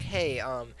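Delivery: retold polite, hesitant request; casual, courteous team-chat ask. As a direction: ask mildly, with small ums. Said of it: "And I politely said".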